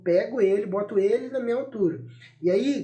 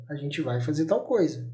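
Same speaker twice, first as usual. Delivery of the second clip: tag firm; 5 semitones lower than usual. Shown as a demonstration. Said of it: "isso é uma fala firme".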